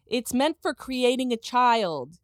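slow, emphatic reading with drawn-out key words; mock-solemn scolding read. Host reading a scolding post to co-host, slow and mock-solemn. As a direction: read it like a stern lecture, deliberately.

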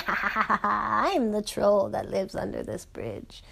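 slow, put-on little troll voice. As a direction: announce yourself as the bridge troll, slowly. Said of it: "this little troll popped up and goes".

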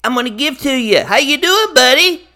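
a cheery Grinch greeting his hosts; Grinch character voice. Acted. Host welcomes the Grinch, who answers in a lightly put-on Grinch voice. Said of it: "Hello, Mister Grinch".

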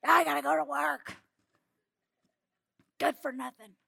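loud exasperated scolding; angry mom rant. Retold or imitated. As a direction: scold the kids, fed up. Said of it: "I'm like".

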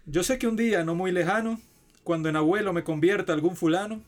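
grand, heightened poem reading over music; poem recitation. Acted. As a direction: recite it like an epic ode.

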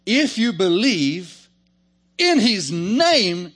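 loud, high, drawn out on "in his name"; emphatic preaching. Real, not acted. Preacher telling believers the true meaning, emphatic. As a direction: hammer "in his name", very slowly. Preacher driving home the reread verse.

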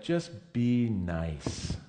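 mock saccharine advice. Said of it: "Jesus may have well have said".

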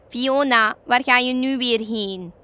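a rabbit calls up to the flying witch; calling out. A narrator's reading. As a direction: shout up to someone passing overhead. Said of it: "riep een ander".

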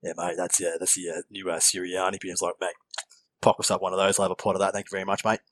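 put-on a barman in a rough Australian accent; Aussie bogan. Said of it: "talking like someone I think that would clean his teeth".

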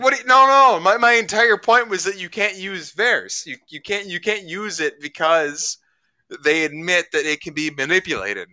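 retelling his own frantic comeback in the argument; exasperated protest. Retold or imitated. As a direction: plead your point, all worked up. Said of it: "I was like".

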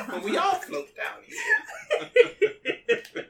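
high, slow laughing clown voice; creepy clown line. Acted. Clown taunting a kid down in the sewer, high and slow.

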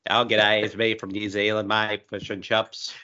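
lightly put-on New Zealand accent. Guest asked to show her New Zealand accent, mild Kiwi accent. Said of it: "Your New Zealand accent came out".

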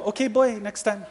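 amused officer. Retold or imitated. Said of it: "He goes".

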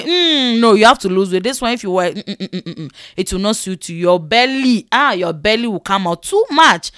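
disapproving hums and blunt verdicts; mock scornful critique; brutally honest tailor. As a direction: imitate a sharp-mouthed tailor refusing. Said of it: "they are too honest".

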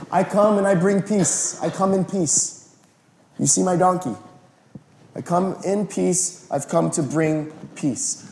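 calm a city with your words; mock king's peace. King riding in declaring peace, slow and gentle.

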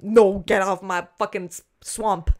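ogre roar. Retold or imitated. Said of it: "I'm not trying to be like".

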